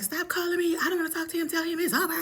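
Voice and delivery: high mock telling-off on the phone; high-pitched brush-off. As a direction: shoo him off in a high voice. Retelling angry phone answer.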